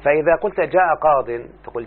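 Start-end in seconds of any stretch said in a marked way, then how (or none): 0.6-1.3 قاض ending in short i plus n, "qadin"; ya dropped. Shown as a demonstration. Teacher modelling the shortened form for a student, ya dropped. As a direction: close قاض on the tanween n. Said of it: "فحذفت الياء لالتقاء الساكنين فقيل قاض".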